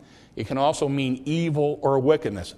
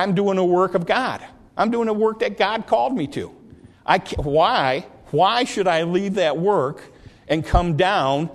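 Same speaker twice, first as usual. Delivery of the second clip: insistent Nehemiah; 3 semitones higher than usual. Acted. Nehemiah refusing his enemies, climbing insistence.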